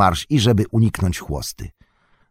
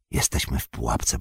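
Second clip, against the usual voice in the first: very low, subdued murmur; resigned; 9 semitones lower, 7 dB quieter than usual. A narrator's reading. Frodo, cornered on the road by orcs, resigned. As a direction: let it sink low and soft, hope gone. Frodo repeats that they are trapped.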